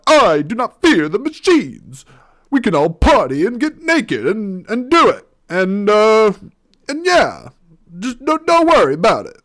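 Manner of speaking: lampoon a grand leader's speech; Morpheus parody. Retold or imitated. Host parodying Morpheus's cave speech to listeners, hammed-up high voice. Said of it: "why am I changing my voice?".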